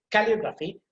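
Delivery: "Calligraphy" with emphasis on its second syllable LI; stress on LI. Shown as a demonstration. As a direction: lift the "li" in "Calligraphy". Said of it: "you have to put emphasis there".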